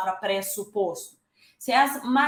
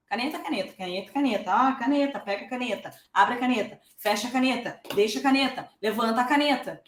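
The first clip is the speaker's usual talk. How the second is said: put-on parent teaching baby. Shown as a demonstration. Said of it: "falavam caneta".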